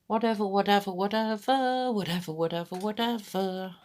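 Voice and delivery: mock-dismissive singsong, stretching every third one; singsong dismissal. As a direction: brush it all off in a lilting repeat. Playfully chanting a dismissive word.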